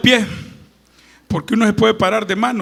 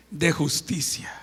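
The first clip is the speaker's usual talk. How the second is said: 1 whisper; 5 semitones lower, 8 dB quieter than usual. Acted. Verse end dropped to a whisper.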